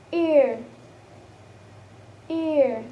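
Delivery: "ear" as a long falling glide; diphthong demo. Shown as a demonstration. Teacher showing the third diphthong, drawn-out demo. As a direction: model "ear" slowly, sliding through the vowel. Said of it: "And the third is".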